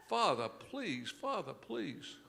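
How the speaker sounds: slow, drawn-out plea; mild comic begging, dragged out slowly; pleading. Acted. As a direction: beg him to stop, stretching each word. Sinner begs priest to stop asking.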